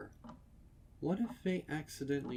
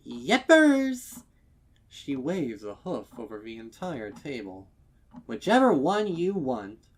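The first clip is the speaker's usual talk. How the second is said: very high, loud and bouncy; overflowing cheer; bubbly mayor; 4 semitones higher, 12 dB louder than usual. A narrator's reading. Mayor offering any cake, bubbly.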